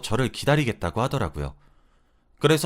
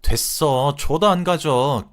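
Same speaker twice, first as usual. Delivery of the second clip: contemptuous retort; 2 semitones higher, 5 dB louder, much slower than usual. Retold or imitated. Wife snaps back in quarrel.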